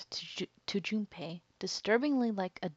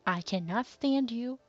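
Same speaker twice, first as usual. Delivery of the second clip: louder, higher, fed-up rant; heated rant; 4 semitones higher, 6 dB louder than usual. Real, not acted. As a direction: vent at the character. Player raging at villain.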